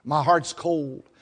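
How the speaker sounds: slow, heavy confession to God; confessing in prayer. Acted. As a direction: admit it to God slowly. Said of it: "when we come to God and say".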